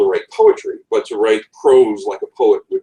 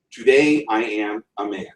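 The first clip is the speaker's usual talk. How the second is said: da-DUM, da-DUM rhythm on "Today I am a man"; iambic stress demo. Shown as a demonstration. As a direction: tap out the iambs. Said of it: "is iambic".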